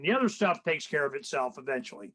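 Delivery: normal talking voice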